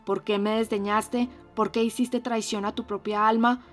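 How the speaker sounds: loud, fierce reproach; ferocious. Acted. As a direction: hurl the blame at her, fiercely. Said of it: "le dijo con acento feroz".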